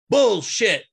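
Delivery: high-pitched, hammed-up outrage; infuriated moviegoer imitation. Retelling a stranger's outburst as the credits roll, infuriated and high. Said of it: "absolutely infuriated with the movie".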